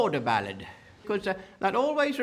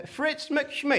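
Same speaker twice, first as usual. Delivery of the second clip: mock Scottish name; 6 semitones higher than usual. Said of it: "he spoke in such a thick Scottish accent".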